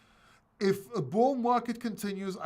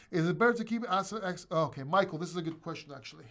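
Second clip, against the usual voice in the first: out of breath; faster than usual. Real, not acted. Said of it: "Let me just catch my breath".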